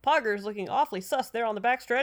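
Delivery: game announcer voice. Pretend. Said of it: "continue with my game announcer voice".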